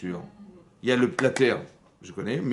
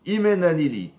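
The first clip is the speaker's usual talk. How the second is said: emphatic quote; 7 semitones higher, 8 dB louder than usual. Shown as a demonstration. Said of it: "Hillel, il a dit".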